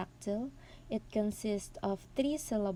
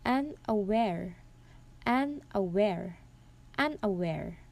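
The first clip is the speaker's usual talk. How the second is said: "unaware" as unaWARE, weight on the last syllable; third-syllable stress. Shown as a demonstration. Presenter demonstrating an anapest, "unaware" stressed on its third syllable. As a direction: repeat "unaware" three times, separated, landing on "ware". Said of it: "the stress is in the third syllable".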